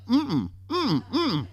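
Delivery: imitated high hummed no; wordless refusal. Girlfriend turns down the pleading boyfriend, hummed refusal. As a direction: refuse with closed-mouth hums. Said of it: "she's looking back at me like".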